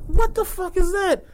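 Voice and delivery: high, slow, stretched-out disgust; mock disgust. Staring at the mayonnaise pail, slow mock disgust. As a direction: recoil at it in slow disbelief.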